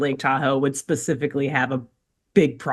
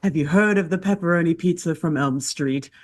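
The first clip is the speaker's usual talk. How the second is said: hushed creepy legend telling. Pretend.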